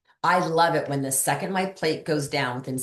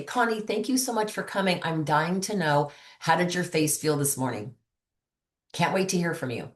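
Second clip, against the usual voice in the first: enthusiastic voice text; 2 semitones higher than usual. Retold or imitated. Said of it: "they can hear my enthusiasm in my voice".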